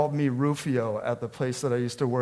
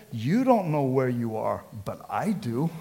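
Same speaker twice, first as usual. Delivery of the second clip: reassuring dad. Retold or imitated. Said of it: "He said".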